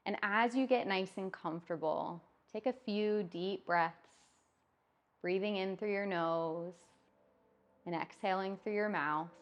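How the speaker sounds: calm, measured yoga nidra voice with long pauses; unhurried, even-toned relaxation script, lingering between phrases; guided meditation. Acted. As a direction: guide them gently towards sleep, phrase by phrase.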